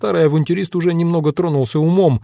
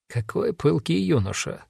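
soft muttering aside; barely audible mutter; 5 semitones higher, 7 dB quieter than usual. A narrator's reading. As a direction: mutter it under the breath. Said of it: "едва слышно пробормотал маг".

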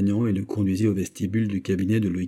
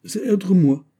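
put-on high-pitched Swiss accent; Swiss officer's accent; 9 semitones higher, 4 dB louder, slower than usual. A narrator's reading. Swiss officer answering the musketeer, in a Swiss accent. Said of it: "dit le Suisse".

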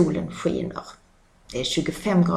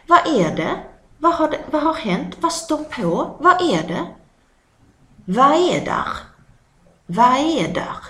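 high, loud alarmed questions; startled; 6 semitones higher, 3 dB louder than usual. Acted. Villager startled, asking what is happening. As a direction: react as if something just happened.

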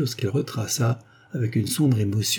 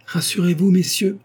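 en souriant; 9 semitones higher, 5 dB louder than usual. A narrator's reading. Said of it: "dit-elle en souriant".

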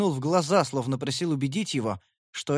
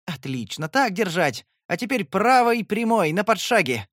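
gleeful cheer, rising higher and louder; mock coaching; 6 semitones higher, 5 dB louder than usual. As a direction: egg her on like a trainer.

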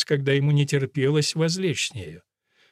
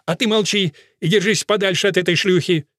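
louder, higher angry snap at the husband; angry rebuke; 4 semitones higher, 4 dB louder than usual. A narrator's reading. Wife to her husband at the wedding dance, angry scolding. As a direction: shut him up with a jealous bite.

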